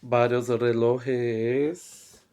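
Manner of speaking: Varios relojes said slowly, stress on varios; slow emphasis. Shown as a demonstration. Teacher stresses varios relojes to explain plurals, slow.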